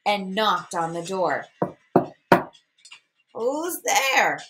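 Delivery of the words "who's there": little voice. A narrator's reading. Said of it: "said a little voice".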